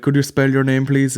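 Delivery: polite request in a fake Indian accent; mock Indian accent. Call center worker asking dad's name, mock Indian accent. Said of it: "And they'd be like".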